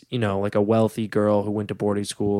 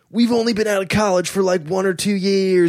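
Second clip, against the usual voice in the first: mock young New Yorker; 7 semitones higher than usual. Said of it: "where it's like".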